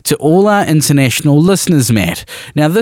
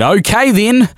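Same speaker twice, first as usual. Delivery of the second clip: eager reply; 8 semitones higher than usual. Retold or imitated. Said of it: "And I said".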